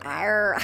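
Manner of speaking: loud playful Arr growl; pirate growl. Pretend. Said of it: "That sounded a bit like a pirate".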